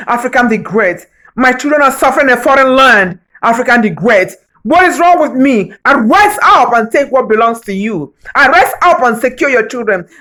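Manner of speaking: booming, building voice of the continent speaking; a continent crying out in a swelling roar; voice of Africa rising up. Acted. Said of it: "This is African continent speaking".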